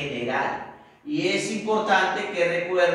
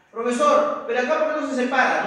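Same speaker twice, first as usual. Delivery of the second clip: quick, higher, louder pupil query; student's question; 5 semitones higher, 4 dB louder, faster than usual. Acted. Teacher acting a student who asks about separation, questioning. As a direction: pipe up quickly as a puzzled pupil.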